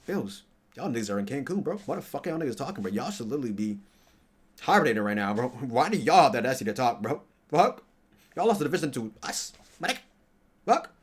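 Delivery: loud, high trash-talk; mock-furious roast of rival fans; heated trash talk at Bills fans; heated rant. Real, not acted.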